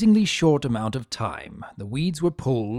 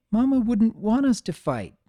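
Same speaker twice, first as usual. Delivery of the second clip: little sister pleading; 10 semitones higher than usual. A narrator's reading.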